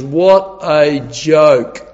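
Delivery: mocking world. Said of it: "the world looks on and laughs and says".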